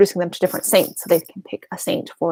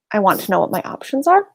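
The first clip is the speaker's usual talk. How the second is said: talking between sips of tea; words round a sip of hot tea; sipping hot tea. Real, not acted. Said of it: "Sorry, I'm sipping my tea as we talk".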